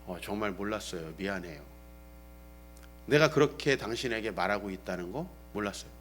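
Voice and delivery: low, very soft apology; imitated apologetic wife. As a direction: quote a wife quietly saying sorry. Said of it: "우리 아내가 뭐라 그러냐면".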